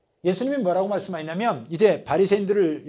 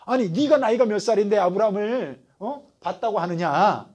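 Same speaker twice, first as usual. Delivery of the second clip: offended elder. Retold or imitated. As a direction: bristle at the upstart's nerve. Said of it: "얼마나 기분 나쁘겠어요".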